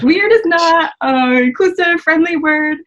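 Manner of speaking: high-pitched, slow, mock-patient correction; a lifted, teasing lecture; mock lecturing. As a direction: correct him like a playful teacher. Retelling her correction of the guy.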